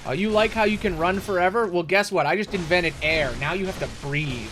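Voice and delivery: loud, gloating mock taunt at the boss. Player taunting the boss he can't kill, loud mock gloat.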